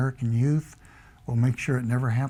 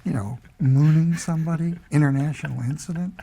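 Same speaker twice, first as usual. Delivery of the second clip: laughing; 4 semitones higher than usual. Real, not acted. Recalling the mooning incident, laughing aloud. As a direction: let the laugh break in.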